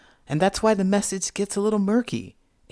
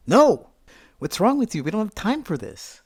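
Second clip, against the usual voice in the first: irritated snap back; 5 semitones higher than usual. Retold or imitated. Refusing to change clothes, irritated retort. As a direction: snap back at a partner, annoyed. Acted quarrel, snapping back.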